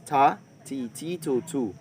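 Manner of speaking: short "ta, ti, ti, tu, tu" with clipped vowels. Shown as a demonstration. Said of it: "we will be added the short vowels".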